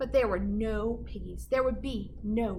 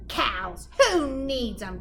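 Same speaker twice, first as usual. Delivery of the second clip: muttered; 2 semitones higher, 4 dB louder, slower than usual. Acted. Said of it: "Gritch muttered".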